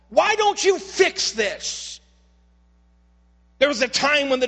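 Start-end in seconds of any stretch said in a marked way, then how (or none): 0.1-2.0 slow plea. Retold or imitated. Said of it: "The psalmist is saying".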